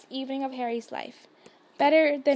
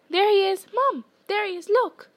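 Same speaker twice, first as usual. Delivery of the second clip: high, loud little-sister squeal; excited squeal; 7 semitones higher, 5 dB louder than usual. A narrator's reading. Younger sister spotting Harry at the station, squealing with excitement. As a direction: squeal it out, pitched well up. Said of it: "she squealed".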